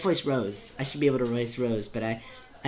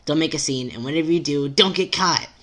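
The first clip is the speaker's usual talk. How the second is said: urgent warning; 3 semitones higher, 6 dB louder than usual. Acted. Urgent warning in acted advice.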